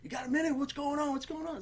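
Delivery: put-on high, quiet, pleading kid voice; eager guy begging for a minute; insecure young guy voice. Guy pleading softly to neighbor for attention. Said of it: "he was just like".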